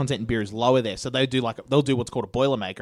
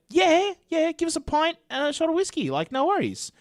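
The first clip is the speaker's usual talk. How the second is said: much higher, hammed-up Scottish accent; Scottish grandfather; 14 semitones higher than usual. Grandfather insists on beer and whisky, in a high hammed-up Scottish accent. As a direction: play the cocky Scottish drinker, pitched way up. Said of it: "And he's like".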